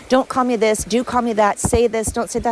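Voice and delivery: mocking protester. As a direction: parody the complainers, nagging.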